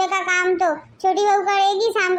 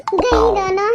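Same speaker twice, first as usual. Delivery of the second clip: gleeful laugh; 3 semitones higher, slower than usual. Acted. Fooled them, laughs alone.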